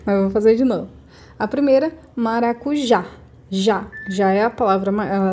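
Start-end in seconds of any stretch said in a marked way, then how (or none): 2.1-3.9 "maracujá" with stress on "já", then "Já" alone; stress on last syllable. Shown as a demonstration. Teacher showing pupils the strongest syllable, stress on "já" in "maracujá". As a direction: pick out the final "já" of "maracujá". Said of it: "a sílaba mais forte".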